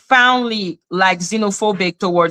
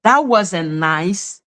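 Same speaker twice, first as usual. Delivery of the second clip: mock polite scolding; much slower than usual. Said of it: "and I'm like".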